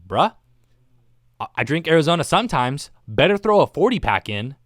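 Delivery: mock bro pep talk to himself; inner voice. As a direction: pump yourself up like a bro. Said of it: "that was literally my mindset".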